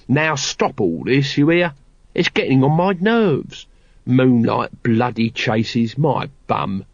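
exasperated street guard, slowing to scorn; lightly voiced grumbling watchman. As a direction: complain as a fed-up old hand. Nobby glares and complains.

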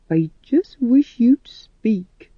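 a tender breathy plea, barely voiced; soft whisper. Missus Vitola gently coaxing the silent boy, whispered softly. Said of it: "she said softly".

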